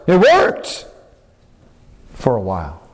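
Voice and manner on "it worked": higher, rising amazement on worked; amazed emphasis. Real, not acted. Preacher repeating Peter's success with rising amazement. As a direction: lift "worked" up in wonder.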